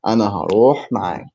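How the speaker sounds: "أنا هروح معك" run together in one quick phrase; natural-speed repeat. Shown as a demonstration. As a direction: say "أنا هروح معك" briskly, without pauses. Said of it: "How can I say".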